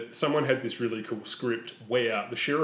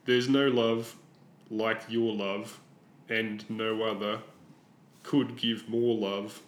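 mocking recitation; slower than usual. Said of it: "This is an example of Rob".

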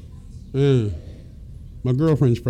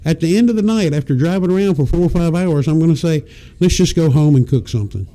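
put-on scheming girlfriend; faster than usual. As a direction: lightly play a teasing girlfriend. Voicing women's test of patience.

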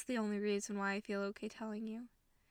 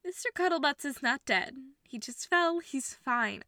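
frantic denial; 2 semitones higher, 6 dB louder than usual. Acted. Insists dog is fine, frantic.

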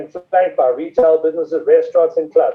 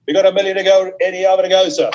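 auction bid spotter; 2 semitones higher than usual. Real, not acted. Auctioneer calling bids live.

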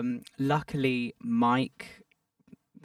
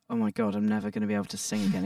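rushed, higher mock despair; mock panic; 9 semitones higher, much faster than usual. Performer quoting an imagined vocal panic, fast mock despair. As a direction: gabble it out like a half-joking meltdown. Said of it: "It's never been like a".

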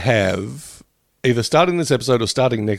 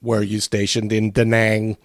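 slow, lightly done nerd voice; slower than usual. Acted. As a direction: ask it like a nerdy know-it-all. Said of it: "try to do a nerd voice here".

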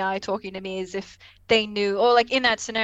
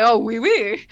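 louder, mock bad French; Picard's butchered French; 5 dB louder, slower than usual. Picard answering Minuet, mock butchered French. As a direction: badly fake a little French. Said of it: "butchered French".

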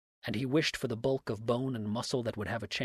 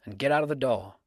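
much higher and louder, a furious cry; cried out; 3 semitones higher, 7 dB louder than usual. A narrator's reading. Dix shouts at Abner to speak, furious cry. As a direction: fling it at him, shouting. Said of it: "cried Dix".

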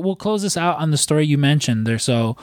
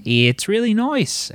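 high, slow mock Kiwi "noice"; singsong imitation of an Antipodean accent; New Zealand accent; 9 semitones higher, much slower than usual. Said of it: "speaks in the New Zealand accent".

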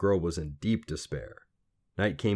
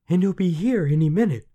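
high, loud, anxious rebuff; impatient girl; 12 semitones higher, 8 dB louder than usual. A narrator's reading. Girl to lad near midnight, frantic. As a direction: cut him off urgently.

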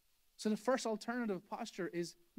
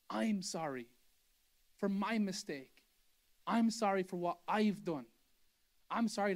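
"I'm sorry" said plainly, owning the mistake; mean every word; husband sincerely apologizing to his wife; sincere apology. Shown as a demonstration. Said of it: "It's Mister Sam".

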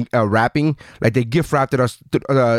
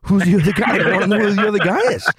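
high, fast, desperate to know; retelling his reaction to the scene, high and fast; eager curiosity; 6 semitones higher, faster than usual. Retold or imitated. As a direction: rattle it off, dying of curiosity. Eagerly quoting own reaction.

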